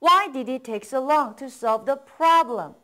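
slow, clear model sentence; slow model reading. Shown as a demonstration. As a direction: read it out slowly for learners to copy. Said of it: "다음 갈게요".

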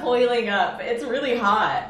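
burning mouth, words slowed by heat; mouth full of hot food. Real, not acted. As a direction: talk through a scorched mouth. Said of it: "my mouth is really on fire".

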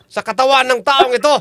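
commanding faith healer; exorcist. Acted. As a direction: cast the demon out.

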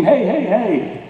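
high, drawn-out mock yell; retold scream. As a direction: imitate a warning scream without much volume. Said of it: "So I scream".

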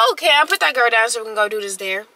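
mildly playful retold remark. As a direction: say it playfully, like a light suggestion.

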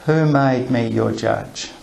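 slow sincere who made me your judge; genuine question. Shown as a demonstration. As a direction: pose it slowly so they think it over. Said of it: "What if he wants them to think about this?".

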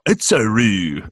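slow, stretched fake Japanese accent; mock Japanese accent. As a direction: imitate Japanese by dragging out an added end vowel. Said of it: "that's like a Japanese accent's".

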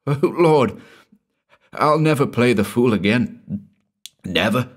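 mildly overwrought, near sobbing; hysterical. A narrator's reading. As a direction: lament it in acted distress. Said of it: "with a hysterical sob".

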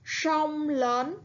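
sông lớn said slowly, each tone clear; sông with a clear ông rhyme, lớn with a rising tone; model reading of sông lớn. Shown as a demonstration. Teacher models the word for pupils, clearly. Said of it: "Các bạn hãy lắng nghe cô đọc".

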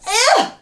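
high, revolted grunt; disgusted ugh. A narrator's reading. Giant spitting out foul food, disgusted.

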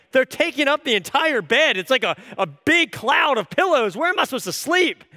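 acted-out exasperated complaint; mock exasperation. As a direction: protest in playful disbelief. Acted quarrel over the pillows.

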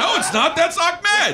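high, loud dummy denial; puppet voice. Pretend. Ventriloquist's puppet denying it, in a high loud voice. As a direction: deny it as the puppet.

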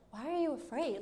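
lightly voiced just-woken nonchalance; casual, unbothered. Jesus waking from his nap to the disciples, casually unbothered. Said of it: "I imagine him saying this, like".

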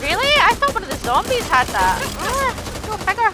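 surprised, exasperated. Real, not acted. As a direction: blurt it out, caught off guard. Surprised teammate had the big gun.

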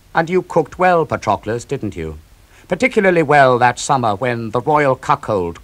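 loud, mocking challenge to Odysseus; bitter taunt. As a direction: sneer it at him, rising loud at the start.

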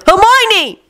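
high, desperate cry of a name; screamed name. A narrator's reading. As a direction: call out for her in anguish. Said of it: "Ron screamed again".

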